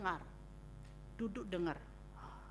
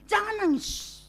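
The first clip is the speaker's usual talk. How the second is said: imitating a comforter; 8 semitones higher, slower than usual. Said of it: "kita bilang gini".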